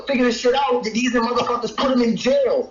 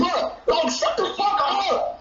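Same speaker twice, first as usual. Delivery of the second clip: high-pitched, exasperated dismissal; 4 semitones higher than usual. Real, not acted. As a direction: pitch jumps up, cutting him off. Heated quarrel, telling him off.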